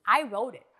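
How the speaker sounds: breathy whisper, as if letting them in on it; whispered aside. Acted. Lawyer whispering the punchline to her podcast friends. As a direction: hush the words like a secret.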